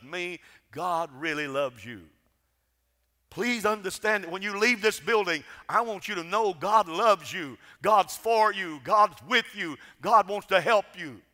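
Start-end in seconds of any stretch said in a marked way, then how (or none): 3.3-11.2 full-force preaching. Acted. Preacher to congregation, proclaiming God's love at full force. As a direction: lift the congregation with each line about God's love.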